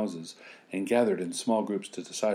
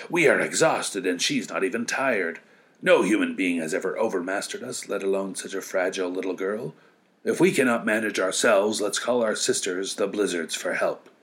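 whirlwind voice; 3 dB louder than usual. Acted. Exhausted whirlwind speech.

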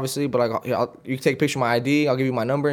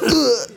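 raised-pitch grunt of impact; imitated grunt; 7 semitones higher than usual. Imitating the man hit by a beer, mock grunt. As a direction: grunt like you just got hit.

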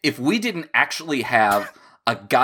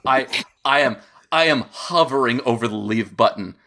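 shaking with anger. Real, not acted. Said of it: "Sean's getting close to the edge".

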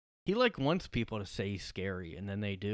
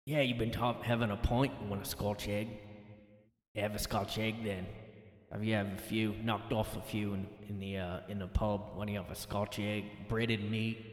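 British pub chatter, put on and softer; British accent; 2 semitones lower, 5 dB quieter than usual. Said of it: "I can't do the accent".

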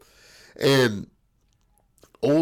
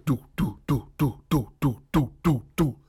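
imitated noise. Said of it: "And then you hear".

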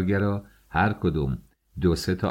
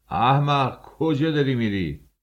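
high, raised scolding call; angry shout; 8 semitones higher, 3 dB louder than usual. A narrator's reading. Chief engineer shouting at a fool, angry shout. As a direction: yell after someone going the wrong way. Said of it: "دوباره سرمهندس داد کشید".

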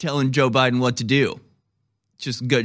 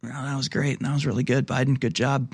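sarcastic; 4 dB quieter than usual. Acted. Sarcastic praise after clip.

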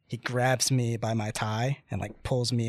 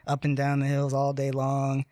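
louder, higher mock menace, driving on; retold punishing threat; 3 semitones higher, 3 dB louder than usual. Punishing companion threatens to walk him ragged, retold threat.

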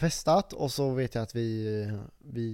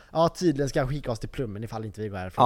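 understated, quicker snide retelling; mildly snotty; 3 dB louder, faster than usual. Retold or imitated. Drunk guy relaying the threat to his friend, mildly snotty. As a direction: toss it off fast, only slightly cocky. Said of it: "det var inte så här sjukt överdrivet".

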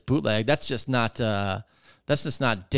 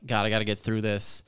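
softer, lazy, unbothered grumble; lazy and bored; 5 semitones lower, 5 dB quieter than usual. Retold or imitated. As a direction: mumble it like a bored stoner. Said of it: "high as hell, leaned back in his chair".

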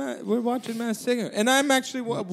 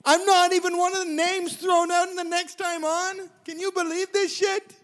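much higher and louder, laughing through it; giddy excitement; 8 semitones higher, 3 dB louder than usual. Real, not acted. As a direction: crow with delight about making the merge. Gloating over making the merge.

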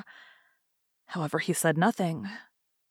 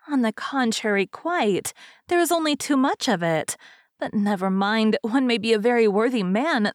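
lightly voiced fairy, a little higher; chatty fairy; 3 semitones higher than usual. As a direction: give a hint of a talkative fairy hostess.

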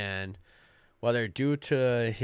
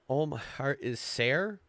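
put-on Scottish accent; 3 semitones higher than usual. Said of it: "you're trying to do it in Scottish".

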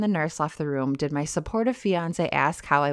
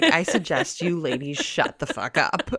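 rude listener voice. Pretend. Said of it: "It better not be like".

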